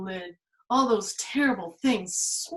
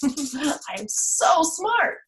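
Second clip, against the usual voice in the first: slow mock boast; 6 semitones higher, much slower than usual. Shown as a demonstration. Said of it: "I am so smart (second take)".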